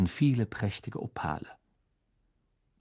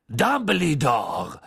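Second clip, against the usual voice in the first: lowered larynx voice; 4 semitones higher, 5 dB louder, much slower than usual. A narrator's reading. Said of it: "mit tiefer Stimme".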